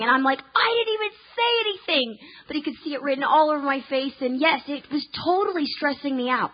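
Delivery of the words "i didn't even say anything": defensive protest. Retold or imitated. Defending herself to husband.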